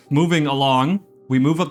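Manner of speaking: exasperated restart. Real, not acted. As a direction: shake it off and restart. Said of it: "sighs then Moving along".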